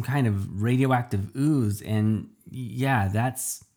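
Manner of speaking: nervous halting stammer. Acted. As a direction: stumble over the words nervously. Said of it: "I stammered".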